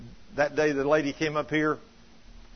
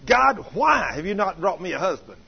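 louder, exasperated demand of God; retold screaming at God; 3 semitones higher, 6 dB louder than usual. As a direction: act out her mild mock yell. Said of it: "I was screaming at God".

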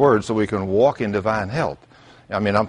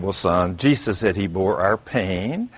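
soft, low, slow grandpa; tender comfort; 4 semitones lower, 5 dB quieter, slower than usual. Retold or imitated. Grandpa softly comforts his crying grandson. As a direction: soothe the hurting boy gently.

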